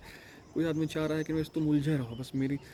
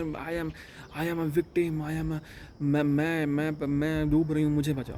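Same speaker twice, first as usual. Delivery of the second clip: mock victim plea; 2 semitones higher, 4 dB louder, much slower than usual. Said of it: "मतलब वो दिखा रही कि मैं परेशान हूँ".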